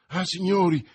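high, loud cry for attention; exclaimed plea. A narrator's reading. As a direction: burst in crying out to the gentlemen. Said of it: "esclamò". (esclamazione concitata)

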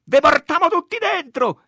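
high, loud police threat; shouted threat. A narrator's reading. Policemen threatening the women with arrest, high loud shouting. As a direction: yell the threat over the mob. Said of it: "e gridavano".

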